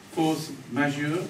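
slow, tentative try with rising end; unsure French phrase. Real, not acted. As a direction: try out "Force majeure" as a question.

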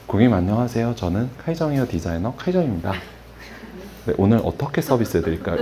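stiff formal greeting. Retold or imitated.

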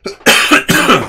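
loud hacking cough; chesty cough. Real, not acted. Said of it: "Excuse me".

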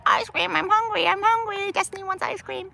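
high-pitched mimic of a begging bird; screaming pet bird. Owner imitates her bird begging for ice cream, high screechy mimicry. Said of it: "screaming all the time".

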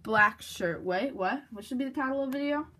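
words through a retainer; talking with retainer in. Real, not acted. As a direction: speak with a retainer in the mouth. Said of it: "I have my retainer in, so it's hard to talk".

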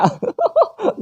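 high burst of laughter. Real, not acted. Gamer cracking up at an elderly zombie, high laugh. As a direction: break into a short high laugh.

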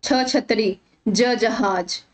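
letter first, then छतरी and जहाज; pronunciation demo. Shown as a demonstration. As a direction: sound छ and ज before their example words. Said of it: "इसका उच्चारण".

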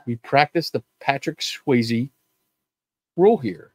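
slow, deliberate full line; slow full repeat. Shown as a demonstration. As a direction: say the whole rule slowly and clearly. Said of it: "you have to say the whole thing".

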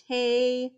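"tay" alone with a long A; "tay" as a separate first syllable; open syllable. Shown as a demonstration. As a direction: hold "tay" level and stretched. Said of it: "That first syllable is open".

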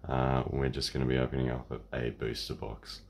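hoarse, croaky throat; croaky voice from a sore throat. Real, not acted. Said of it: "I apologise for my croaky voice".

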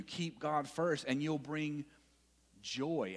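slow emphatic. Shown as a demonstration.

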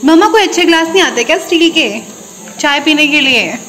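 loud, high call to mom in another room. Real, not acted. Daughter calls loudly to her mother about steel glasses. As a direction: call across the house to mama.

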